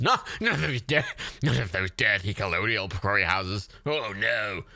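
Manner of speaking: lightly put-on disapproving Briton; mock British bigot. Mocking Britons who object to curry houses, mock-indignant. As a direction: play a mock-scandalised xenophobe.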